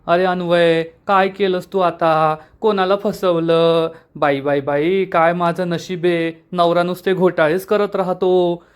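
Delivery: slow, mildly wailing complaint; understated woeful mother-style moan; tearful lament. Acted. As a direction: lament with drawn-out words, only lightly tearful. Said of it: "Meena रडू लागते".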